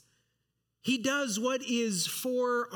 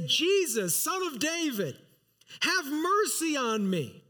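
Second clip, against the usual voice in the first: a mild retold plea, raised a little; crying out for mercy; 5 semitones higher than usual. Blind beggar calling to Jesus by the road, mild raised plea. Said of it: "he began to cry out and say".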